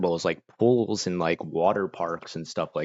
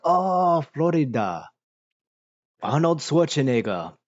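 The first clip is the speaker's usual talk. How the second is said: higher, drawn-out "oh" of recognition; mock impressed reaction, pitched up; imitated excited recognition; 7 semitones higher, slower than usual. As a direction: imitate someone delighted to recognise the place. Imitates foreigners reacting to Florida.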